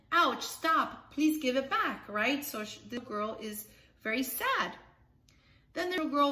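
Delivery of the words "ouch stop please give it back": upset plea. Acted. Girl's teddy bear taken.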